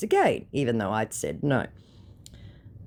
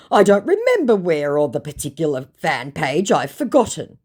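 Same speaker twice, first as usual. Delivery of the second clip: feeble excuse; 4 semitones higher, 7 dB louder than usual. Retold or imitated. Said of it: "he tries".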